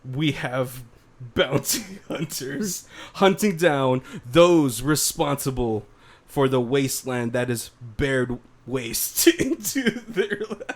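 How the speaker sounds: slow, dramatic trailer narration, half laughing; movie trailer voice. Pretend. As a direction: announce it like an epic blockbuster. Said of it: "doing them in the movie trailer guy's voice".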